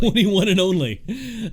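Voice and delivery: slow repeat. Real, not acted. Repeating slowly back.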